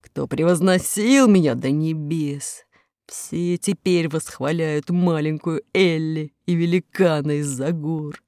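hushed, unvoiced whisper. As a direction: breathe the words out bitterly. Bitter muttering of fallen ruler.

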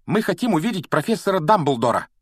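high, loud, brave statement; bold declaration. A narrator's reading. Pupil boldly asks the professor to see the headmaster, declaring. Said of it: "Отважно выступила вперёд Гермиона".

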